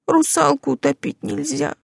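put-on high, tearful girl's voice, pleading; a crying mermaid girl apologising; tearful young girl. Уля speaks. (плачущая девушка, высокий голос)

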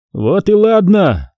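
high, unhurried approval; conciliatory. A narrator's reading. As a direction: settle it amicably, drawing the words out. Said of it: "сказал Михаил Александрович примирительно".

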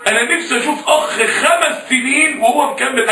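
preacher's passionate slow shout; fervent shout. Real, not acted. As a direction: cry it out to the youth. Pleading climax of the sermon.

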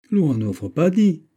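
put-on slow, high, Swiss-accented reply; reply slowly as a Swiss officer with an accent; Swiss officer's accent. A narrator's reading. Swiss officer replying to the musketeer, in a Swiss accent. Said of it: "répliqua le Suisse".

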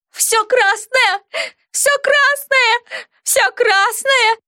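high, slow, wailing shriek; hysterical screaming. A narrator's reading. Hysterical girl shrieking the same phrase at her friend. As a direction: shriek it over and over, half crying. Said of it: "безостановочно выкрикивала".

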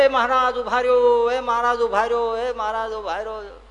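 high, long-drawn calls after someone; running shouts. Acted. Farmer running after Maharaj's horses, shouting for him to wait. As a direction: cry out to make them stop, stretching the last word. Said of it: "અને બૂમો પાડતો જાય".

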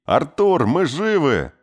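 high, loud cry of relief; joyful shout. A narrator's reading. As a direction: call out to the boy. Kay shouting to son.

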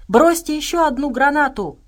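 high, loud urgent call; shouting. A narrator's reading. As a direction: shout an order across the fight. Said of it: "крикнула Настя".

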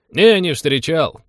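indifferent. Acted. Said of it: "равнодушно отозвался казак".

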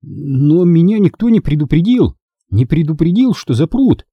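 mildly outraged schoolboy exclamation; crying out. A narrator's reading. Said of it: "вскричал Чарли".

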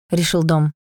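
usual speaking voice

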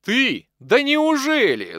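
очень высоко, громко и медленно; закричать от удивления и радости; радостный крик. Acted. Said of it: "закричал Силин". (Силин радостно кричит, увидев Николая)

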